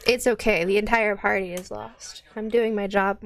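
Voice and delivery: loud proud boast. Real, not acted. GM boasting to confused party.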